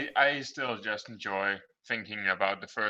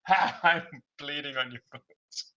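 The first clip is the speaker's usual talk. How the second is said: higher-pitched mock psycho taunt; yelling psycho; 5 semitones higher than usual. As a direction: replay the psycho line, half-yelled. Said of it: "hearing the psychos yell all kind of random".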